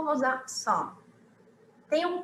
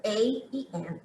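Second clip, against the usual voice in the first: American article sounds; 3 dB quieter, slower than usual. Shown as a demonstration. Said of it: "A é como os americanos falam".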